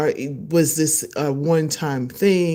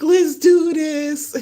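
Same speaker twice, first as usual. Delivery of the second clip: slow triumphant echo; 11 semitones higher, 4 dB louder, much slower than usual. Retold or imitated. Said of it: "I was like".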